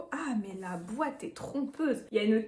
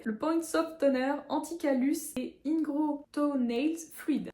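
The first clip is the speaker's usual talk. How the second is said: slow, careful French-accented English; 3 semitones higher, slower than usual. Real, not acted. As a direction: read the English product name slowly in a French accent. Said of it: "attention mon accent anglais".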